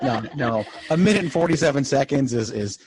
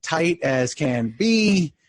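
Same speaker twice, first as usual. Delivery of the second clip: higher-pitched sarcasm, stretching out the final words; sarcastic; 5 semitones higher, slower than usual. Real, not acted. Co-host boasting to host of a tight podcast, sarcastic. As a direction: lay on the mock sincerity, slowing at the end. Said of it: "he's just being sarcastic".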